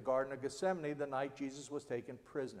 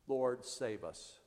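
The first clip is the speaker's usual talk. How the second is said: crying out in fear; 5 semitones lower, 5 dB quieter, much slower than usual. Acted. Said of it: "They cry out in fear again".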